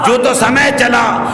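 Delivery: slow, ringing shout of جو تو سمے چلا; full-voiced proclamation. Shown as a demonstration. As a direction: throw the line out to the whole hall. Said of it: "ایک جملہ کہوں گا".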